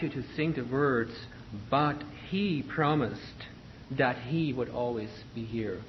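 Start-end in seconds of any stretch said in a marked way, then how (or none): 1.7-5.8 "But he promised" slow, each word separately attacked; staccato emphasis. Shown as a demonstration. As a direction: detach "But", "he" and "promised", then "that he would always be here". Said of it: "sing them a little bit more s-, staccato".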